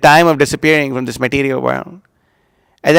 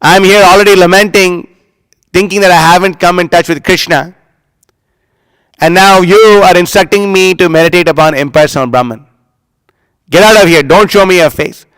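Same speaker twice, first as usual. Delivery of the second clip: a touch of scolding, slightly raised; mild retold anger. Guru scolds his offensive disciple, mildly angry. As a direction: rebuke the disciple, half-hearted. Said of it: "gets angry and says".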